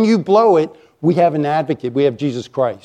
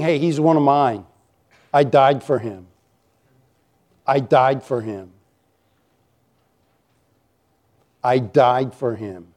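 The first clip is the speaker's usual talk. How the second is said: calm defense; 3 semitones lower than usual. Acted. Jesus defending the accused sinner.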